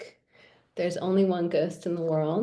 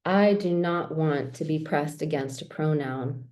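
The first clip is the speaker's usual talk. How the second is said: measured poetry reading with pauses between phrases. Acted. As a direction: read the poem aloud, line by measured line. Reads own poems aloud.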